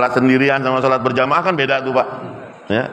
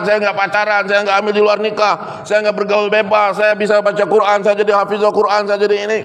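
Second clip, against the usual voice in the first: higher earnest daughter's voice; a daughter pleading for her father, pitched up; daughter defending father; 6 semitones higher than usual. Acted. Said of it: "Oh, dia bela bapaknya".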